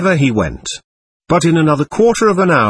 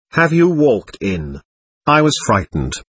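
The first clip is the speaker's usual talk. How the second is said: ordinary delivery, nothing marked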